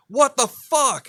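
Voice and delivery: loud, high, drawn-out disbelief; dad's shocked shout. Retold or imitated. Dad coming out to find puke, shocked shout. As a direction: imitate an appalled father crying out slowly. Imitates dad finding the vomit.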